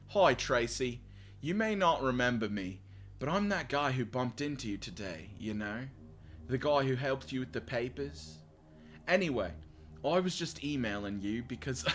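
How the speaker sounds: reading in a shaky-attempt British accent. Shown as a demonstration. Man emailing Tracy after bumping into her, attempted British accent. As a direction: put on an amateur British voice. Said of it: "I can't do the British voice".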